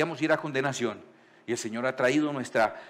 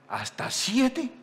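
high, slow, drawn-out asking; doubtful question; 9 semitones higher, much slower than usual. Acted. Peter asks Jesus how often to forgive, high and slow. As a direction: stretch it out, unsure it is enough.

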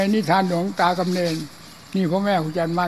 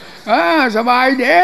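slow bellowed reply, much higher and louder; mock yell, slow and stretched; comic shout back; 7 semitones higher, 8 dB louder, slower than usual. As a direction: shout the answer back to a supposedly deaf monk. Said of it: "หลวงพ่อต้องพูดเสียงดังๆนะ".

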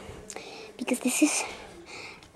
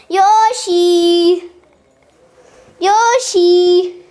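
calling out; 4 semitones higher, 3 dB louder, much slower than usual. Pretend. Calling out for Yoshi.

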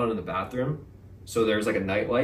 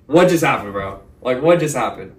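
shocked; 6 dB louder than usual. Retold or imitated. Stunned after intruder fled.

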